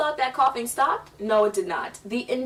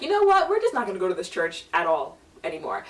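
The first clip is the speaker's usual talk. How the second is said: parents done with it; faster than usual. Retold or imitated. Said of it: "they were like".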